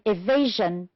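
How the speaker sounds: evasion with VA stressed; stress on second syllable. Shown as a demonstration. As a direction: lean on the middle of evasion. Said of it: "it's the second one again".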